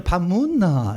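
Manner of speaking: "밥 묻나?" with Gyeongsang rise and fall; Gyeongsang tones. Shown as a demonstration. Pastor showing the church Gyeongsang dialect tones. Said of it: "약간 올라갔다 내려갔다".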